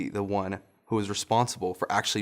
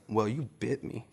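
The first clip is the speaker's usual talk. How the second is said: laughing; 5 dB quieter than usual. Retold or imitated. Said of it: "And I said".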